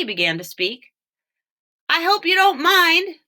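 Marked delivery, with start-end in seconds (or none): 1.9-3.2 lightly voiced duck, higher; a hint of a polite talking duck; a tired duck asking, lightly voiced higher. A narrator's reading. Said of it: "the bird said".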